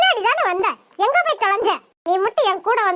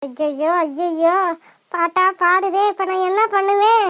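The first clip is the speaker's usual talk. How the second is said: panicked dread; 3 semitones lower than usual. Acted. Girl dreads her aunt's scolding, fearful. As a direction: groan it out in fear.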